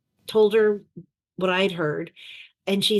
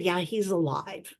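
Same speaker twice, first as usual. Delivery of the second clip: softer, slow, deliberate reply; calm after deep breath; 7 dB quieter than usual. Retold or imitated. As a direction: let it land quietly after a breath. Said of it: "And I took a deep breath".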